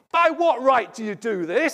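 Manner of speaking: loud, high indignant demand; indignant challenge. Acted. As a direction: fire the question at him like an accusation. Jewish leaders confronting Jesus.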